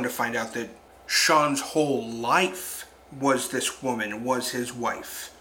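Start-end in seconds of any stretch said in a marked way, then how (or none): 4.2-5.3 "was" leaned on, slow and soft; stress on was. Shown as a demonstration. Explaining the film, stressing "was" in slow soft voice. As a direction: dwell on "was" to show she's gone. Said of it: "Emphasis on was".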